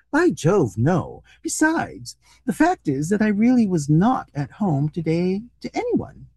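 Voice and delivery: animated, expressive storybook reading; story narration. A narrator's reading. Reader telling a comic short story to listeners, animated narration. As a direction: read it out with lively rises and falls.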